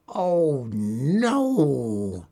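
a touch of a despairing moan. A narrator's reading. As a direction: sigh it out in mild dismay. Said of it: "she moaned".

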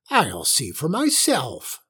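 slow, swooping witch voice; suspicious old witch. A narrator's reading. Witch heading for the pantry to check, suspicious. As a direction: draw it out with suspicion.

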